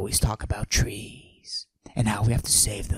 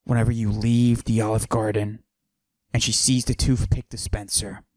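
macho voice pushed down, held the whole bit; forced deep voice. Acted. Mister Steal Your Girl hiding his estrogen with a forced deep voice. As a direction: fake a deep tough-guy voice. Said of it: "I deepen my voice like this".

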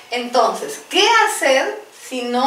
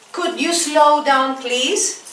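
slow model phrase; 2 semitones higher, much slower than usual. Shown as a demonstration. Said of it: "También".

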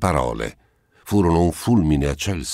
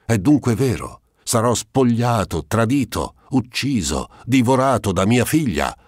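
a ruined miser crying out his losses, pitched up; anguished outburst; 6 semitones higher than usual. Acted. Old miser to the notary, crying out in dismay at losing everything.

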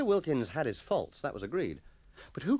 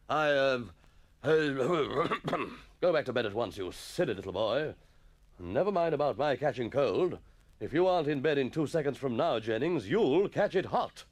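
exasperated schoolmaster; 2 semitones higher, 4 dB louder than usual. Acted. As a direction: splutter and scold a silly pupil. Master scolds Jennings.

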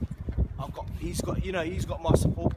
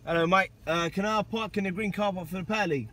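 polite request in a put-on country accent. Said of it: "why you do that accent".

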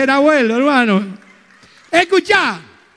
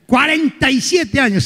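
savouring "Cuarenta y siete años"; slow boast; slower than usual. Acted. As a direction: repeat "siete" drawn out. Vain man repeating his age.

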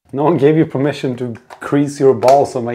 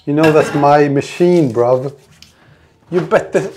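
playful London lad challenge, a touch louder; mock British geezer; 4 dB louder than usual. Gym-goer rehearses warning off a machine thief, mock British accent. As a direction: puff up like a cockney gym bro. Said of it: "I'm gonna say".

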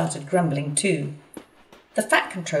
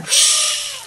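very high, slow playful whoosh; startled splash; 5 dB louder than usual. A narrator's reading. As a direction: make the splash leap out. Elephant startled, squirts water.

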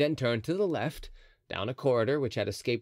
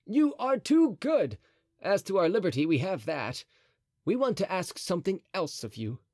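musketeer voice; 7 semitones higher than usual. A narrator's reading. D'Artagnan speaks.

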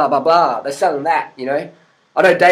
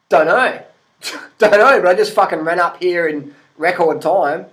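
cheeky laughing reply; 3 dB louder than usual. Retold or imitated.

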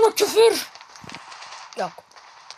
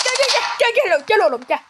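calling out; 4 semitones higher, 5 dB louder, faster than usual. Real, not acted. Calling teammates in game.

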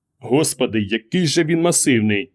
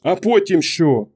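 higher-pitched, drawn-out demand; exasperated challenge; 6 semitones higher, slower than usual. A narrator's reading. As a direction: challenge him slowly and pointedly. Wife blocks his way, demanding. (роздратований виклик)

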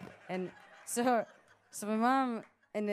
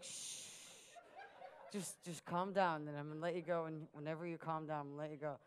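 hushed, low mock reassurance; shush, then talk her down; calming her down; 9 semitones lower, 11 dB quieter, faster than usual. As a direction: imitate soothing someone worked up. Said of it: "to calm her down".

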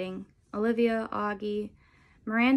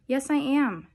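higher, louder, lightly tearful protest; mild sobbing; 5 semitones higher, 5 dB louder, slower than usual. A narrator's reading. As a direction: insist with a touch of a sob. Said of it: "she sobs".

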